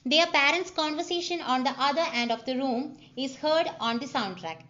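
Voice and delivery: reads each word out slowly, like a dictation; slow script reading. Shown as a demonstration. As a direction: spell out the scene calmly for the class. Reading screenplay aloud slowly.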